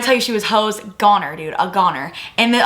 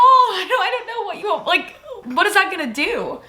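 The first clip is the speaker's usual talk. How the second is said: high-pitched, giggly bafflement; laughing exasperation; 11 semitones higher than usual. Retold or imitated. Catcher baffled by the screaming batter, laughing in high disbelief. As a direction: let laughter break into the protest.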